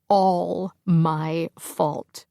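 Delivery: slow, drawn-out broken words; sinking under the blame; tearful guilt. Acted. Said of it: "eyes filled with panicked tears".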